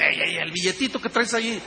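a hint of God nudging him, low and a little apart. God nudging the pastor about the bill, lightly low voice. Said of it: "El Señor me dice".

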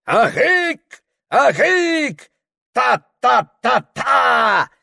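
high, slow ecstatic cry; shaman's roar. Acted. Shaman roars while whirling and beating the drum. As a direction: howl it out like a man in trance. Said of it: "ревел шаман".

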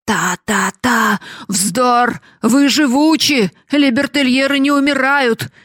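loud, high, scornful yelling; father shouting at his wife and daughter; furious shout. Acted. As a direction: bark it all at them in rage. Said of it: "закричал он".

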